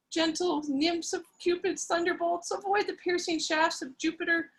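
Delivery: mild mock frenzy, barely pushed; frantic raving. Laura raves over dead Edward, a touch of frenzy. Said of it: "raving in a frantic, incoherent manner".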